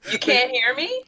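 garbled underwater robot voice; warbly bad connection sound. Real, not acted. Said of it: "You sound like an underwater robot".

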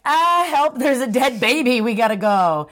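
lightly acted cry for help, starting high; mock panic. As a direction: imitate a panicked caller at the door. Acting out panicked visitor at door.

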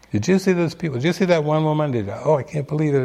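imitated self-scolding rant; ego ranting. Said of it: "the ego would just rant".

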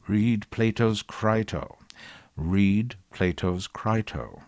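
slow, mildly imitated British accent; lightly mock Buckley's put-on British accent, slowly. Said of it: "in his faux British accent".

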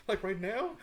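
high laughing; laughing disbelief. Real, not acted. Retelling being told to nap at work, laughing. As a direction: laugh through the question.

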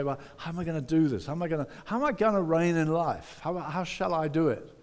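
quick, fretful questions; anxious questioning. Retold or imitated. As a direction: rush the worried questions. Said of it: "when we say".

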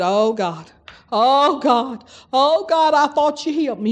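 imitated despairing plea, climbing in pitch; hammed-up pleading lament; mock wail. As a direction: play a complaining cry to God. Mimics a despairing complaint.

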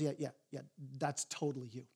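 gentle. Retold or imitated. God gently telling the listeners, soft and tender. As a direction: let him down gently, kindly. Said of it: "God gently looks over at you and me".

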